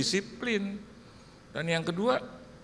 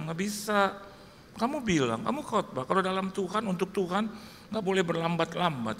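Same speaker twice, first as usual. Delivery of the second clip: stern wife; 3 semitones higher than usual. Retold or imitated. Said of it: "Saya bilang".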